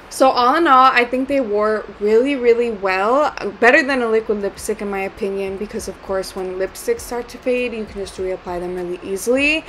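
slushy sh for s from a retainer; talking with a retainer in, lisping. Real, not acted. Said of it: "sorry for my retainer list".

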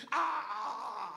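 acted groan of exasperation; exasperated "ah"; frustrated wail. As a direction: let out a drawn-out mock-frustrated cry. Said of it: "that frustration's starting to rise".

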